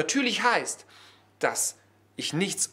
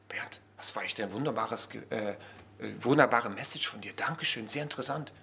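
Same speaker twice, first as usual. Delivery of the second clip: polite thanks; 8 semitones lower, 6 dB quieter than usual. Pretend. Acts out listener thanking him afterwards.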